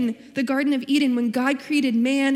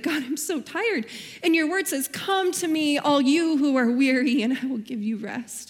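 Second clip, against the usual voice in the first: tired complaining; 3 semitones higher than usual. Retold or imitated. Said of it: "I was complaining about that too".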